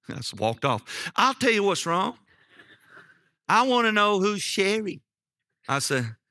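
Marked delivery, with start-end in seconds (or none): 1.1-5.0 high, pointed voice of an accusing wife; acted confrontation. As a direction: demand an answer, imitating an upset wife. Wife confronts husband in retold quarrel.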